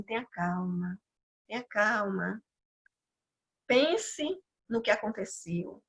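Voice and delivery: soft, calming words, a lightly voiced comforting presence; gently quiet them down, a hint of God's calm. The voice of God calming the crying woman, softly. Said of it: "voz que calmamente me dizia".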